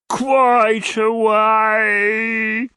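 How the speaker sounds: high, very slow, swooning; languishing suitor. A narrator's reading. Old gentleman languishing at Mrs Nickleby. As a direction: sigh the words out lovesick. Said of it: "with a languishing look".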